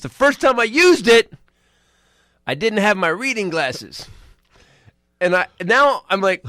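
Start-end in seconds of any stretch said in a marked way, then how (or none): 0.0-4.1 slow, deliberate confession; slow deadpan dad. Retold or imitated. Dad confessing to his son, slow and deliberate. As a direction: lay it out slowly. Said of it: "He goes".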